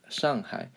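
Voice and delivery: "Shanghai" as shahng-hai; Mandarin-style "Shanghai"; correct pronunciation. Shown as a demonstration. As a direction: say "Shanghai" with an open ah vowel. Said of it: "the correct way to say it".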